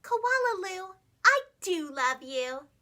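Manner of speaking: slow tender sing-song; loving mother. Acted. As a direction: coo it lovingly to her baby. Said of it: "her mother would smile and say".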